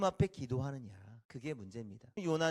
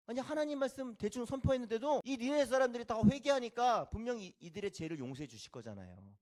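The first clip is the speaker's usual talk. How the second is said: loud, raised-pitch indignation; angry protest; 4 semitones higher, 3 dB louder than usual. Acted. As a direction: protest crossly to God. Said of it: "화나서 하나님 앞에 이렇게 성내는". (화나서 따지는 말투)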